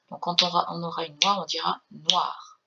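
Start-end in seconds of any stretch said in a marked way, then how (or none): 1.9-2.6 noir said as one clipped syllable, no final e. Shown as a demonstration. Music teacher showing the syllable to students: noir, one syllable. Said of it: "on ne dit pas noire ... une syllabe".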